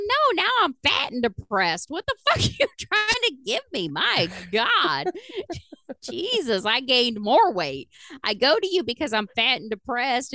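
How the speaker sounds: high-pitched, indignant comic tirade; worked-up patient griping at the doctor; exasperated rant. Retold or imitated. Retold angry complaint to doctor.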